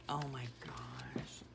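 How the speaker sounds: breathy whisper of awe; whispered oh my gosh. Real, not acted. Mother whispering over her daughter's baby photos, awed.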